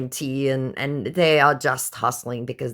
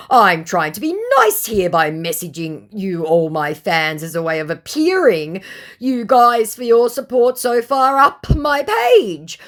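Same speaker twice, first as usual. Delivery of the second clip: high whiny voice; 8 semitones higher, 7 dB louder than usual. Retold or imitated. Scammer voiced, self-justifying.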